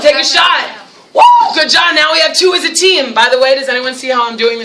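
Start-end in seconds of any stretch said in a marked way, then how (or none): 0.0-3.1 excited cheer. Retold or imitated. Classroom basketball game cheer.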